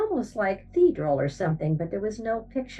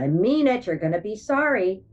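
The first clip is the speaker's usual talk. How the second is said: threat; 3 semitones higher than usual. Retold or imitated. Woman threatens the singers.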